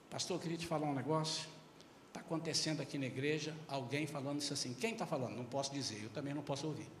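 quiet church gossip; hushed gossip. Acted. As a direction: lean in and tell it like a secret. Congregant gossiping to the pastor.

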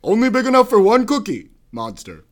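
Obama cadence reading Cookie Monster tweets. Pretend. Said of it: "Obama impersonation".

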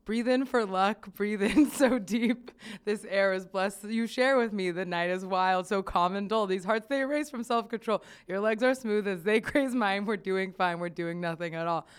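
reading the lyrics aloud with mock gravity; a slightly grand recital, laughs slipping in; mock dramatic reading. Podcast host reads a listener's lyric review, mock dramatic.

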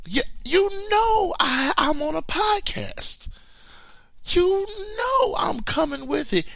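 high, loud playful shout at his friend; calling him out. Real, not acted. Calling out his Gamecock-fan buddy on the podcast, high playful shout.

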